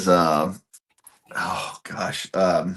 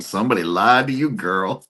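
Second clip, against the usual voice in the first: lightly voiced heckler, quicker; a milder, quicker mock call-out; imitated sassy heckler; 2 semitones higher than usual. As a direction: toss off the heckle as a private thought. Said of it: "I just think to myself".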